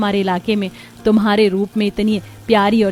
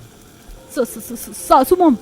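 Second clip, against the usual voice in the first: frightened stammer; 3 semitones higher, much slower than usual. Acted. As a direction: caught out, stammering breathless fragments. Caught poisoning, stammers in fright. (पकड़े जाने पर डर से हकलाना)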